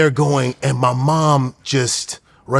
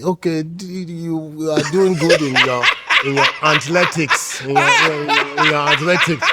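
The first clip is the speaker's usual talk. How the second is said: imitated Nigerian dad. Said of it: "Like my dad was like".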